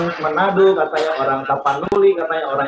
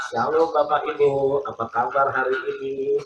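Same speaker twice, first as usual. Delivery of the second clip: gentle pastor greeting; 2 semitones lower, 5 dB quieter than usual. Retold or imitated. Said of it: "lemah lembut itu seperti Pak Hendra kalau ngomong sama jemaah".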